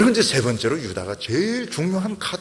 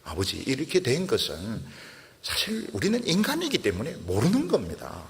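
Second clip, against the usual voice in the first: calm explaining; 3 semitones lower than usual. Retold or imitated. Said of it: "유다는 차분하게 이제 설명을 합니다".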